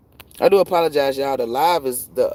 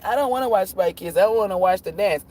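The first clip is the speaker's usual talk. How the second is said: imitated kid; 4 semitones higher than usual. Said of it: "She talking about".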